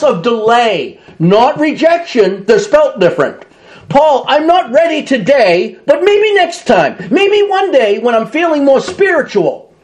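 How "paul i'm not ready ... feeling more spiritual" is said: higher, breezy putting-off voice; hesitant procrastinator. Acted. Preacher voicing a listener delaying Paul, lightly voiced excuse. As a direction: brush Paul off gently for now.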